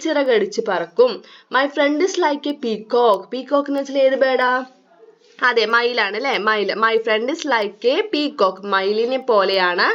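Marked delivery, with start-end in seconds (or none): 1.6-3.2 reading the poem very slowly, word by word. Acted. Rereads line slowly. 6.8-8.6 reading the poem very slowly, word by word. Acted. Rereads line slowly.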